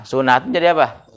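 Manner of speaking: "sunatun" read with a u on the sin, su-na-tun; sunatun with a dammah. Shown as a demonstration. Teacher showing the dammah reading to students, clearly pronounced. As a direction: say "sunatun" with u on the first letter. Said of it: "Kalau ente baca domah".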